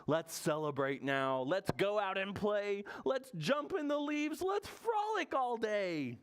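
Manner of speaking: high, exuberant storybook bear; joyful crying out. Acted. Recovered Bear thanks his friends, high joyful cry. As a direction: cry out the good news in a high voice. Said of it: "Bear cries".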